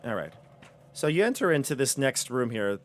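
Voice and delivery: ordinary talk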